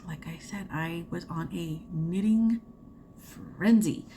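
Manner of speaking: whispered aside. Real, not acted. Vlogger confides her knitting binge to viewers, whisper. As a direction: drop to a voiceless confiding whisper.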